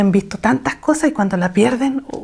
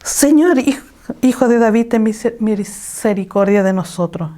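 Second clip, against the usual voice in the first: crying out aloud. Retold or imitated. Blind men crying out to Jesus, a raised plea. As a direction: call out to Jesus for mercy. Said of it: "Ese clamor significa que en voz alta".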